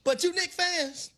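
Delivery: preaching. Acted. Preaching with Bible in hand.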